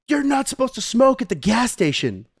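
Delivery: high-pitched scolding stranger, mildly mocking; mock yelling. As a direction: imitate a lady telling someone off, high voice. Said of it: "this lady yells at me".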